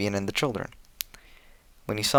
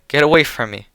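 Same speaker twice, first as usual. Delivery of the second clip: loud, higher cry of get away; shouting; 5 semitones higher, 7 dB louder than usual. A narrator's reading. Jane shouting at Albert to get away, loud. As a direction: push him off with the voice. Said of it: "I could hear myself".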